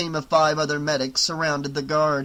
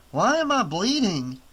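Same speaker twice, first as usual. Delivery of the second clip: dazed guard; 5 semitones higher than usual. Acted.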